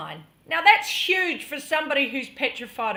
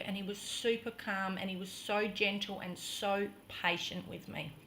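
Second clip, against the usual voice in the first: gentle recollection; 5 semitones lower, 11 dB quieter than usual. Real, not acted. Describes his calm, gentle patience.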